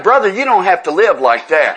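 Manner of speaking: chuckling through a retold plea to a stranger; laughing plea. Retelling urging the diner neighbour, laughing. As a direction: laugh while you urge him.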